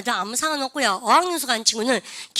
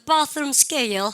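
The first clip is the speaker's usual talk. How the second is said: British "bathroom scale", drawn out slowly; British accent; 2 semitones higher, much slower than usual. Shown as a demonstration. Teacher shows how the British say it, British accent. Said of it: "영어 있던".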